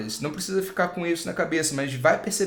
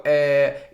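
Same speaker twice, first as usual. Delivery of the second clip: a long drawn-out Portuguese é; hesitation filler; 5 dB louder than usual. Shown as a demonstration. Teacher showing Portuguese hesitation é. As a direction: hold the filler é while thinking. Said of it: "esse é de que a gente fala no meio".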